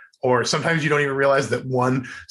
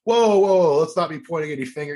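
defensive whoa; 5 semitones higher than usual. Retold or imitated. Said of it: "And he goes".

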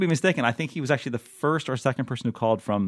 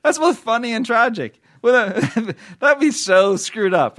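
laughing through the words, slowed down; 10 semitones higher, 4 dB louder than usual. Real, not acted. Host cracking up at a grim news story, laughing. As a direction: chuckle it out, half-appalled.

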